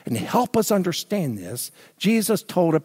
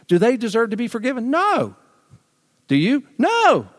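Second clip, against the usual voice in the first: emphatic rhetorical no; 8 semitones higher than usual. Real, not acted. Rhetorical questions to the congregation.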